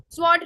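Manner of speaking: "स्वॉर्ड" with w and d both sounded; hard sound. Shown as a demonstration. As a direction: say "स्वॉर्ड" hard and full, d not silent. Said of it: "इस पे बस hard sound रहेगा".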